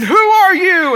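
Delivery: high, loud angry demand; imitated yelling. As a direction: act out an irate customer yelling at the manager. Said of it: "after he has yelled at her".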